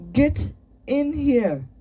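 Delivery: high, loud, drawn-out command; shouted order. A narrator's reading. Boy ordering his friend inside, shouting. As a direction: order them in from outside, stretching the words. Shouted exchange through door.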